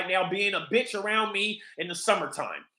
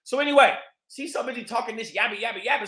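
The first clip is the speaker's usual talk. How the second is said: normal talking voice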